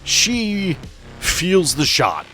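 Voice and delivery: usual speaking voice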